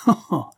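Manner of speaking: short acted laugh; brief storyteller's chuckle. A narrator's reading. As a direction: laugh out "ha, ha" in character. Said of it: "Il rit".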